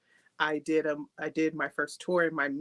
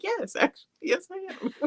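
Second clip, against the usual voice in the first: laughing admission; 14 semitones higher than usual. Retold or imitated. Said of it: "And I was like".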